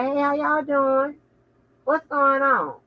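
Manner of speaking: fake-polite words through clenched teeth; through gritted teeth. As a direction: smile and grind it out through teeth. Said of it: "talking through my teeth".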